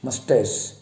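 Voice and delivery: मस्टेस with a clean final s; correct pronunciation. Shown as a demonstration. Teacher repeating the proper word, मस्टेस ending in s. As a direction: finish मस्टेस on an s sound. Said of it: "इसका सही उच्चारण है".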